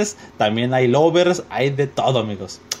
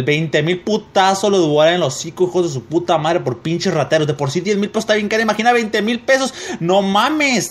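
outraged rant; 6 semitones higher than usual. Acted. Reader ranting at viewers over a store's price, building outrage. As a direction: build into a higher, incredulous tirade.

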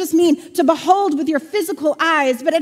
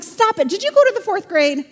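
higher, exasperated comeback; mock exasperation; 5 semitones higher than usual. Mover snaps back at friends doubting Kansas, exasperated. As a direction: scold a friend in mild disbelief.

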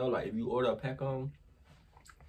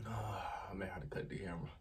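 strained; 4 semitones lower, 14 dB quieter, faster than usual. Real, not acted. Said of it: "I'm about to start crying".

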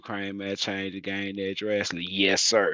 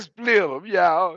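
high, loud mocking call; imitating scale officer; 10 semitones higher, 9 dB louder, much slower than usual. Driver mimics scale officer, high and loud. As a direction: squeak it like a bossy scale man. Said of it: "He said".

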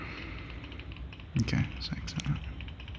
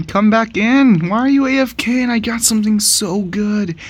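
high pleading; 10 semitones higher than usual. Real, not acted. Pleading with idle teammate.

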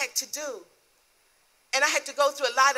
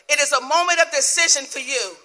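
raised, loud preacher's declaration; forceful divine proclamation; 4 semitones higher, 5 dB louder than usual. Retold or imitated. God presses a believer to decide, loud and commanding. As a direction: proclaim it high and strong as God's word.

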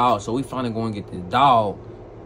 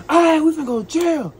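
much higher, loud panicked cry; 5 dB louder than usual. Retold or imitated. Seeing the police ahead, a high panicked yelp. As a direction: yelp it out in alarm. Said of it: "I'm a".

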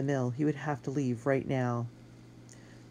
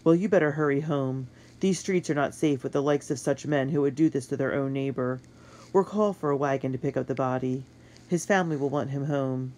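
weary soldier; 3 dB louder than usual. Acted. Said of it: "The soldier sighed".

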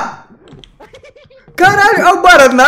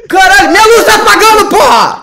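scared horror game streamer; 7 semitones higher, 6 dB louder than usual. Real, not acted. Light dying in horror game.

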